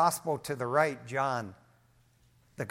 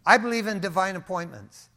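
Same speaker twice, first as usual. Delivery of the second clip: "I believe in divine appointments" said again, louder, firm; pressed home louder, "I" leading; louder restatement; 5 dB louder than usual. Shown as a demonstration. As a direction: repeat it with conviction for the crowd. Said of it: "Do you guys believe that?".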